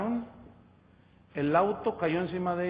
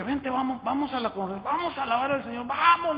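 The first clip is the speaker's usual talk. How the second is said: eager invitation; 6 semitones higher than usual. Retold or imitated. Urging the weeping coworker to church.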